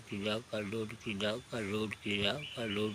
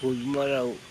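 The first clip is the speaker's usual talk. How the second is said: much louder repeat when told to speak up; 3 semitones higher, 8 dB louder, slower than usual. Real, not acted. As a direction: call it out so the mic hears. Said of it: "ഉറക്കെ പറ, എന്നാലേ സൗണ്ടിൽ പറഞ്ഞാലേ ഇത് കേൾക്കുള്ളൂ". (ഉറക്കെ പറയുന്നു)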